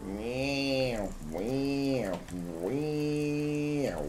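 soft drawn-out meow noises; imitated vehicle noise. Player making own sound effects in the game, imitated noise.

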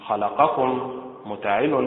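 خلقكم stressed on the خ, slowly; stress on first vowel. Shown as a demonstration. Teacher shows tajweed stress on خلقكم, slow and deliberate. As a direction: hit the first syllable of خلقكم. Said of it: "النبر فيها على حركة الخاء".

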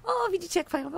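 excited. Real, not acted. Delight at a working mechanism.

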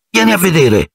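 high cry breaking with relief; calling out, flooded with relief; relieved shout. A narrator's reading. Ron calling to Harry when the light appears, high relieved cry. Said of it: "con la voce rotta dal sollievo".

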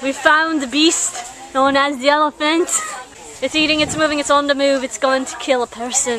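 badly faked Australian nature-show voice; attempted Australian accent. Narrating the elephant like a beast hunt, failed Australian accent. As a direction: have a rough go at an Australian accent. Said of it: "Why are you talking like an Irish person?".

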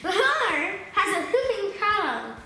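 repeating, words blurred by stretcher; garbled with cheeks held open; mouth guard in. Real, not acted. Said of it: "try and say it with the mouth guard in".

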